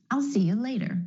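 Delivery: "later" with the T flapped like a quick D. Shown as a demonstration. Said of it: "The flap T is really just a D sound".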